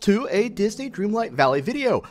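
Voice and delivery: Ghost Host voice. Acted. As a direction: ham up the eerie theme-park host. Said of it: "I am your host, your ghost host".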